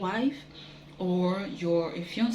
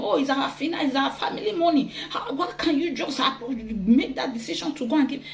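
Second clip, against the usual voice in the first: higher, half-laughing protest; mild laughing challenge; 5 semitones higher than usual. Retold or imitated. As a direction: challenge him with a laugh, lightly. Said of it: "You may want to challenge him".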